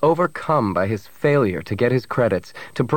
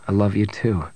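loving Han. Acted. Han returns Bria's declaration.

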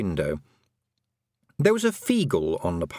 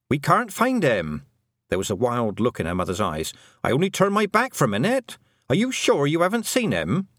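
panicked mother; 4 semitones higher than usual. Acted. Mother who lost her toddler, panicked pleading. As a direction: let the panic pour out.

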